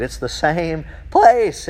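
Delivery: slow, deliberate emphasis on the point; emphatic. Real, not acted. Preacher to congregation, slow emphatic insistence. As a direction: lean on each word slowly. I'm just ecstatic here.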